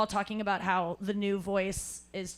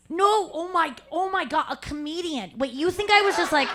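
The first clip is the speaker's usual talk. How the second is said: laughing, louder, higher; a flustered, laughing realization; excited correction; 7 semitones higher, 5 dB louder than usual. Retold or imitated. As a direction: blurt it out in disbelief. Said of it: "I go".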